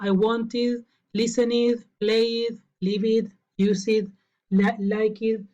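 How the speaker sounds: every -ed ending said as a full extra "id" syllable, as in "want it", "like it"; common learner mispronunciation. Shown as a demonstration. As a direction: say "listen it", "play it", "like it" with an added "id" syllable. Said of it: "la mayoría pronuncie como id".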